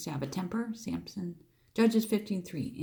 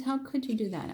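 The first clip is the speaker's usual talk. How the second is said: put-on outraged question, fast and raised; acted indignant reproach; 6 semitones higher, faster than usual. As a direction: blurt it out as wronged Samson. Voicing wronged Samson's reproach.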